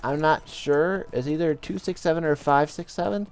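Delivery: high-pitched imitation of an old Polish lady; badly faked old Polish lady leaving a voicemail. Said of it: "Polish lady".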